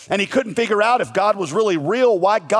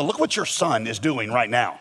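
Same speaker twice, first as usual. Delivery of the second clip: parent complaining; 6 semitones lower, 4 dB quieter than usual. Retold or imitated. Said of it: "like one parent saying to the other".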